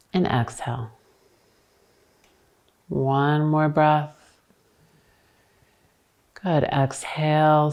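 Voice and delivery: pace each word to a long breath, pauses between; guided breathing. Real, not acted. Paces students' breath in a twist.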